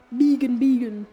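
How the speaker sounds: "Megan" said as BEE-gun, twice over; "Megan, Megan" quickly, as BEE-gun; quoted mispronunciation. Retold or imitated. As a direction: mimic "Megan" with a long ee in the first syllable. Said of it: "because of that rapper's, like, podcast thing".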